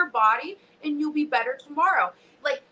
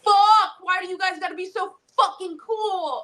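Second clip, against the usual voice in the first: high-pitched mock exasperated cry; loud start, half-laughing high wail; overwhelmed outburst; 8 semitones higher, 3 dB louder than usual. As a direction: wail it, overcome by admiration. Acted reaction to kind messages.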